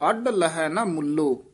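ਅੱਡ with a hard retroflex ਡ. Shown as a demonstration. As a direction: strike ਅੱਡ with the tongue curled back. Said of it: "ਇਹ ਡੱਡੇ ਨਾਲ".

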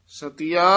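ਸਤਿਆ with the ਤ doubled, held a beat with adhak; pronunciation demo. Shown as a demonstration. Teacher correcting the student's reading of ਸਤਿਆ, with a doubled ਤ. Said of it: "ਸਤਿਆ ਇੱਥੇ ਯਮਕ ਲਾ ਦੇਣੀ ਹੈ".

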